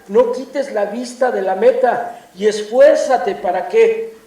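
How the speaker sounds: loud, slow, emphatic sermon delivery; forceful preaching. Acted. Pastor preaching to his congregation, loud and slow. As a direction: drive each phrase home from the pulpit.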